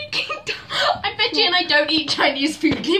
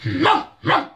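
big dog meowing joke; 2 semitones higher, 4 dB louder, slower than usual. Pretend. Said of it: "I can do a big and a small dog".

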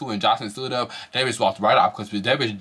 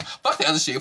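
mock excited; 5 semitones higher than usual. Retold own excited rant.

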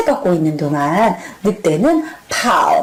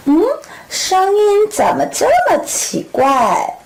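put-on puzzled girl; 5 semitones higher than usual. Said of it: "할머니 목소리가 왜 이렇게 이상하시지".

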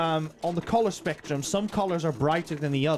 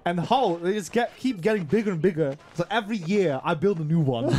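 granny voice. Acted. Granny character story.

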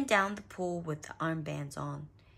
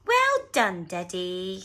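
smiling praise; 8 dB louder, slower than usual. A narrator's reading. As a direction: congratulate with an audible smile. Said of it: "smiled Mummy Pig".

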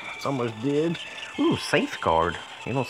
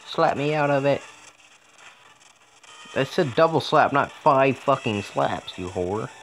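angry rant; 5 semitones higher than usual. Real, not acted. Angry at the game.

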